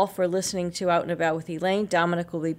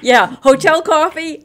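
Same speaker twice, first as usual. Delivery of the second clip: higher, slow scoffing question; incredulous; 9 semitones higher, 10 dB louder than usual. Real, not acted. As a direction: scoff at the very idea. Scoffing at hotel coffee.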